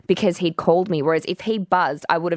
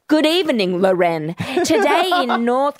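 assistant voice imitation; 5 semitones higher, slower than usual. Imitating Alexa greeting.

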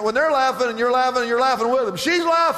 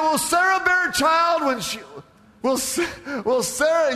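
acted incredulity; 7 semitones higher than usual. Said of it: "he's just down there laughing".

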